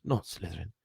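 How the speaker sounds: whispered, desperate plea; pleading whisper. Acted. Harry silently begging the hat, whispered plea. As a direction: barely breathe it, begging. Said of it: "Harry gripped the edges of the stool and thought".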